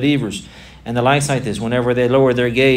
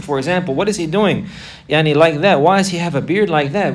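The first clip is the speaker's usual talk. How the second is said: higher, sneering mocking voice; scornful mocker; 3 semitones higher than usual. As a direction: scoff at the believers like a jeering bystander. Disbelievers mocking praying believers.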